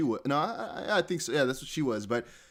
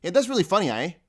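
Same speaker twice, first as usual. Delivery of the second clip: lightly imitated Canadian, tagging on "eh"; a hint of Canadian accent; 3 semitones higher than usual. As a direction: mimic a Canadian guy, slightly raised voice. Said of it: "He always said".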